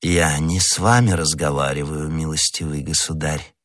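low, condescending dismissal; haughty irony. A narrator's reading. Stranger to the youth with irony and arrogance, haughty irony. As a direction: brush him off with lofty disdain. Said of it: "тоном, полным непередаваемой иронии и надменности".

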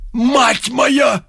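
lightly acted widow's moan. A narrator's reading. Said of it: "простонала Грицацуева".

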